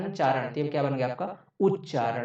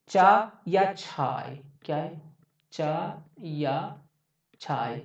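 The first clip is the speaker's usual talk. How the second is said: drawn-out sounds; much slower than usual. Shown as a demonstration. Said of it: "teacher drawing out the sounds".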